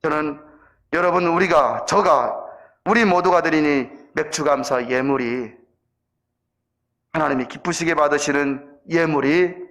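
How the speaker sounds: low, measured sermon close; earnest pastoral exhortation, slowing on the key endings; solemn preaching. Real, not acted. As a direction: drop low and give each phrase room.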